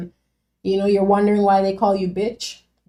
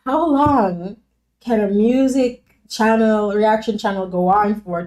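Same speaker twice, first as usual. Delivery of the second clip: retold disbelief; 2 semitones higher, 4 dB louder, slower than usual. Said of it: "I was like".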